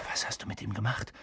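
hushed, quick question; whispered. A narrator's reading. Harry shocked at Hermine's spell, hushed. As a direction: ask under your breath, taken aback. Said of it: "flüsterte Harry".

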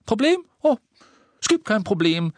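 high, mocking disbelief; sarcastic Ron. A narrator's reading. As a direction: scoff at the word as if absurd. Ron's sarcastic denial.

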